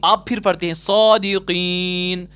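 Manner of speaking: सौदीकीन with the की drawn out and the final ना dropped; stretched madd. Shown as a demonstration. Teacher gives the pause reading, somewhat drawn out. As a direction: hold the की in सौदीकीन, then stop. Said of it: "तो फिर क्या हम पढ़ते हैं".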